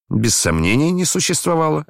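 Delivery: firm verdict, rising in pitch; curt confirmation. A narrator's reading. Son backing up his father's accuser, curt confirmation. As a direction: cut the matter off decisively. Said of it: "отрезал Ганя".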